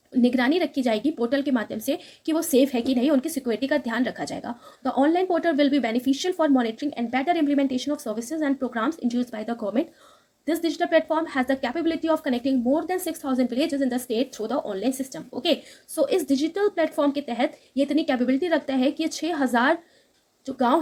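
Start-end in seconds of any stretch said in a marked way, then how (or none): 4.9-15.3 very slow, careful reading of English text; slow news read. Acted. Teacher reading the English news line to students, slow and careful. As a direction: read each word out slowly for students.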